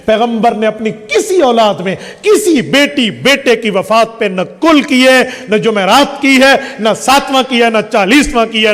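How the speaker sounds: insistent denial, each item hit hard; emphatic preaching. Real, not acted. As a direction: hammer out every item in the list.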